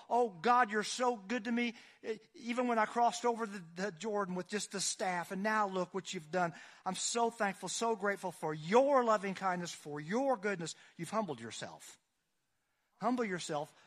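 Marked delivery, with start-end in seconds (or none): 0.1-10.7 a lightly voiced Jacob, louder and fervent; Jacob's grateful prayer. Preacher voicing Jacob thanking God, a touch raised and fervent. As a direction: pour out thanks like Jacob at the Jordan.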